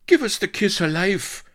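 high, loud drowning plea; spluttering. A narrator's reading. Drowning colonel begging Vanity, high spluttered shout. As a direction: splutter it out urgently over the water. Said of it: "spluttered the colonel".

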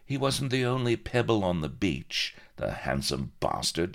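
high-starting spite, dropping at the end; mildly catty inner voice; spiteful thought. A narrator's reading. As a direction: think it aloud with a touch of spite. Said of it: "she thought spitefully".

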